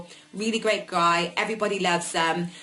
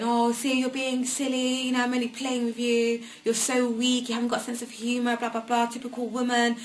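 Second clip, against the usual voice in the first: higher, mildly mocking retold taunts; imitated belittling; 4 semitones higher than usual. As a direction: imitate someone brushing off tears with put-downs. Retelling his belittling remarks while she cried.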